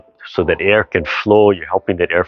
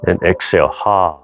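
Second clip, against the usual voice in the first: breathy ha exhale. Shown as a demonstration. Instructor cues the class to exhale, breathy ha. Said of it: "use the Ha sound".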